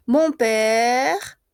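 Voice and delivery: père drawn out, ending on the r; silent final e. Shown as a demonstration. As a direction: hold père long and leave its final e unsaid. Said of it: "no se pronuncia".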